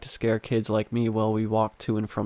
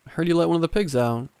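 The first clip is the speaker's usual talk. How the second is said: put-on quick Southern accent, higher pitch; lightly voiced Southern mom accent; 6 semitones higher, faster than usual. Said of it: "in her deep southern accent".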